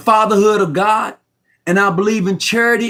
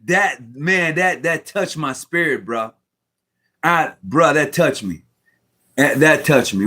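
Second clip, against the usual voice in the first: choked up; 4 semitones lower than usual. Real, not acted. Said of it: "boy, I'm about to cry".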